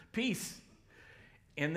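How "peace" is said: a bright raised hello; high sing-song peace. Pretend. Jesus greeting stunned disciples with a high light peace.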